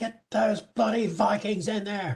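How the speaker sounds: shouted, pitched way up. Voicing Garth yelling at him to send the Vikings in: Garth yelling an order. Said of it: "Garth's gonna yell at him".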